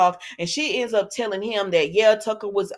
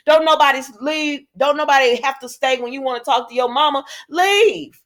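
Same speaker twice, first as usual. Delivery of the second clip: loud sassy telling-off, ending in a sharp leave; ordering her out of the room; 4 semitones higher, 3 dB louder than usual. Pretend. Telling Phyllis off in imagined quote.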